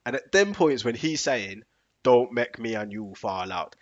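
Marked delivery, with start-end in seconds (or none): 2.0-3.7 slow, deliberate fatherly threat; vexed dad. Retold or imitated. Dad already vexed with son, slow warning. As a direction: imitate a dad already annoyed, spacing out each word. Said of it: "he's already vexed".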